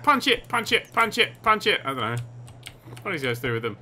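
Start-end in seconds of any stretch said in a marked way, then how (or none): 0.0-1.8 high-pitched rapid repeated command; urgent urging. Real, not acted. Player urging a punch at the rat, urgent urging. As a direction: egg it on, high and insistent.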